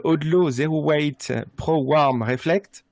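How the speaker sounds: slow, careful English accent on the brand name; French speaker spelling out an English product name in English. Real, not acted. Host reading a jacket's English name to listeners in an English accent. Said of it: "désolé pour mon accent anglais".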